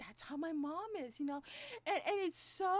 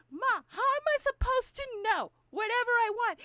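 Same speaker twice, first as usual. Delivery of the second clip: exasperated; 10 semitones higher, 13 dB louder than usual. Retold or imitated. Exasperated daughter to mom.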